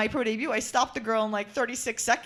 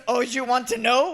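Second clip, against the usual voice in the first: put-on slow, teasing Panamanian-accented coach; 4 dB louder, slower than usual. Boxer mimics her Panamanian coach taunting her, light Panamanian accent. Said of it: "with his Panamanian accent".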